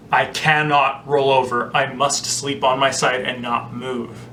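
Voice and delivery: slow, deliberate vow; determined kid resolve. Retold or imitated. Child telling own brain not to roll over, determined. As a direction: state it slowly, like a solemn rule to yourself. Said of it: "I set an intention so powerful".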